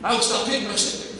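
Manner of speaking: put-on a child waving a hand, eager and fast; eager kid. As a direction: play a kid bursting to answer. They'll raise their hand.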